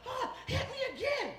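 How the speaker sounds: very high mock female voice; woman's excited begging. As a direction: beg in an imitated high squeal. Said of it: "She's like".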